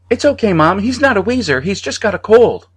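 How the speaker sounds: put-on a little boy reassures his mother; high child voice calling. A narrator's reading.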